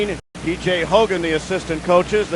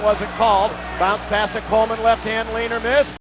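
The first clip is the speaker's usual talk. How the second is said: play-by-play. Acted. Live play-by-play call.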